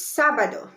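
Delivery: sábado with the weight on SA; first-syllable stress. Shown as a demonstration. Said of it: "stress on the first letter A".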